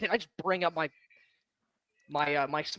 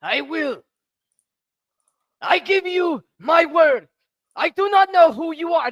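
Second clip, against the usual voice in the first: booming oath; 13 semitones higher than usual. Acted. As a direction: bellow the promise. Player character's oath, shouting.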